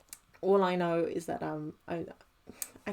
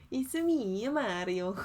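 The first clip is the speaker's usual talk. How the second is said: put-on Mario accent; 3 semitones higher, slower than usual. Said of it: "the Mario accent".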